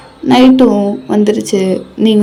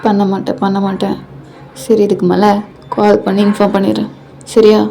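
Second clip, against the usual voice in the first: reassuring. Acted. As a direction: calmly give in and reassure. Husband promises, calming upset wife. (சமாதானமாக உறுதி சொல்லும் குரல்)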